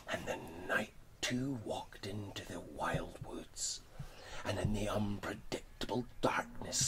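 hushed, breathy story narration; whispered storytelling. A narrator's reading. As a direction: whisper the tale like a secret.

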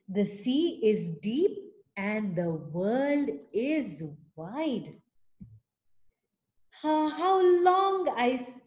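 a touch of longing, small snail voice; wistful little snail. Acted. Tiny snail longing to sail, mildly wistful. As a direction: sigh it out like a tiny dreamer. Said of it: "said the tiny snail".

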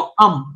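"अम" said as one syllable closing on m; demonstrated pronunciation. Shown as a demonstration. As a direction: pronounce "अम" as a model sound, vowel into m. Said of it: "अम जब आप बोलते हो".

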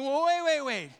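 high, loud flustered protest; objecting. Retold or imitated. Skeptical listeners protesting to the preacher, with a loud, high, flustered wait. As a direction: cut him off mid-story in disbelief. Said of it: "these guys are thinking".

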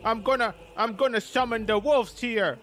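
a smug, dopey put-on voice sneering at a rival creator; lightly voiced sneering parody of a smug video maker; mocking Patreon creator. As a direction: parody a self-satisfied YouTuber showing off his summons. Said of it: "and they're like".

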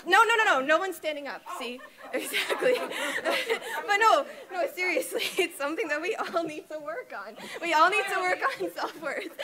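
laughing through the words. Real, not acted. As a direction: giggle while you talk. Laughing at no one standing.

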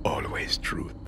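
soft, cold whisper; quiet whispered reply. Acted. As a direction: breathe the answer. Son answers in whisper.

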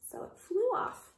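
whispered narration. A narrator's reading. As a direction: hush the ending.

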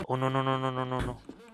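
soft laughing no-no-no. Real, not acted. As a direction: laugh the nos out softly. Laughing quiet nos.

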